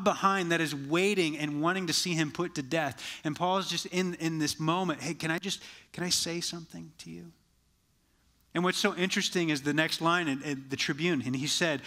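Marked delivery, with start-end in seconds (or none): 5.0-7.3 softer, hesitant polite ask; lightly acted quiet interjection, feeling for permission; tentative request. Paul asking the tribune to let him speak, soft and tentative.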